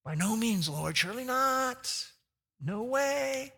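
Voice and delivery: toned-down refusal. Acted. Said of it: "he's toned it down quite a bit here".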